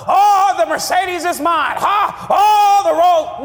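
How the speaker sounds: hammed-up boast over a luxury car; mock bragging with a laugh. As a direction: brag like someone showing off a Mercedes. Mocking materialistic believer.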